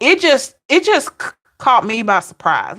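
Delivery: stammering start; stuttering. Real, not acted. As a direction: trip over the words. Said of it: "I'm kinda stuttering a little bit".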